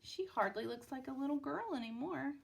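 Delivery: lively storybook reading with voiced characters; story narration. A narrator's reading. Parent reading a picture book to a child, lively storytelling. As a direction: read it like a bedtime picture book.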